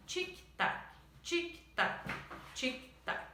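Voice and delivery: whispered tic-tac growing fainter; fading whispered ticking; whispered fade-out. Acted. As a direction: let the clock die away in a whisper. Poem ends, clock fading.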